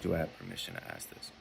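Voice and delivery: "Do I have permission to ask this?" rattled off quickly and softly; throwaway quoted ask. Shown as a demonstration. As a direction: toss it off quickly, no weight. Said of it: "you don't really need to ask".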